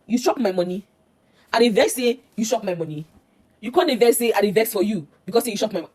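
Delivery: loud, indignant pidgin scolding; angry mother. Retold or imitated. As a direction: tell off your daughter, loudly and aggrieved. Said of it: "the lady starts to get angry".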